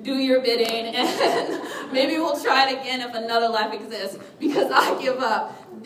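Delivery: hammed-up surrender with a laugh; dramatic. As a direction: give up theatrically, half-laughing. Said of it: "I go very dramatic".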